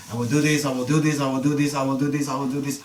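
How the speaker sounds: even, repetitive run of promises; chant-like listing on one level pitch; rattled-off list. Shown as a demonstration. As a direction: reel off each item identically. Demonstrates list between repeated refrains.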